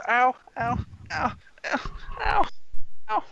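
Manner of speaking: high-pitched repeated ows; hammed-up little cries of pain; pained yelping. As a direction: yelp as if pulled by the ear. Neil dragged in by the ear.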